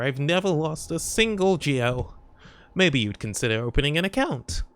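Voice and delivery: lightly voiced sweet old lady; a hint of a kindly granny banker. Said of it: "How's my old lady voice?".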